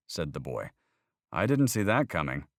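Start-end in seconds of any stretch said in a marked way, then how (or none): 1.3-2.5 put-on higher, louder earnest boy questioning faith; young boy arguing about God, higher and louder; voiced young boy. A narrator's reading. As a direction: play the boy pressing his point.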